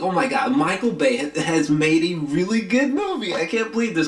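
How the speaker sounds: retold amazement, pitch climbing as it goes; stunned realization, voice rising; amazed disbelief. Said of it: "blew my mind".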